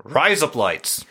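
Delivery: slow test of "rise up lights" as Australian "razor blades"; Australian-sounding trick phrase. Shown as a demonstration. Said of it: "saying razor blades in an Australian accent".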